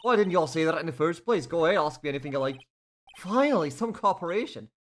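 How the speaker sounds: loud, brash Southern woman; country woman. Acted. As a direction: talk big like a feisty country gal. Voicing Lotta.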